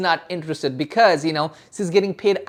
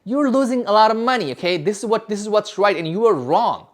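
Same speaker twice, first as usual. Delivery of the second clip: raised, firm and self-assured, lightly acted; cocky; 3 semitones higher than usual. Shown as a demonstration. Salesman showing prospects how to talk with cocky confidence. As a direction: sound like you own the call. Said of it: "You have to be cocky. You have to tell them".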